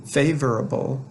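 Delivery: "Favorable" with the first syllable stressed. Shown as a demonstration. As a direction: lean on FA in "Favorable". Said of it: "the accent is on the first syllable".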